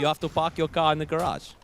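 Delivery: put-on South African accent. Shown as a demonstration. Co-caster retrying the South African accent for his partner, put-on accent. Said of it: "Can you do a South African accent?".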